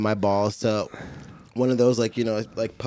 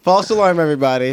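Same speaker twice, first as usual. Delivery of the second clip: mock announcement; 4 semitones higher, 3 dB louder than usual. Mock announcement, repeated by others.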